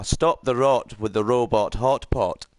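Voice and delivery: slow, amateur Scottish accent. Shown as a demonstration. Streamer retries a phrase learned to practice Scottish, slow Scottish accent. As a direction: try out a practised Scots phrase, slowly. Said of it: "gonna do my impression of a Scotsman".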